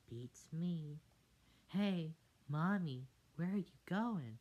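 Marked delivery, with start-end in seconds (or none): 1.7-4.4 put-on squeaky tadpole kids calling; pleading little kids calling mom; high child voices. Tadpoles call to mother.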